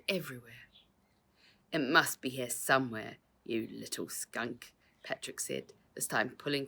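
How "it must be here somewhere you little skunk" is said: menacing. Acted. Crook threatening boy.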